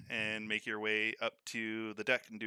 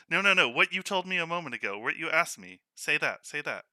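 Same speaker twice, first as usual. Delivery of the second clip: higher, louder, fast bugbear badgering; bugbear insisting; 7 semitones higher, 9 dB louder than usual. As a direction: pester the crow, hammering say that. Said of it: "He goes".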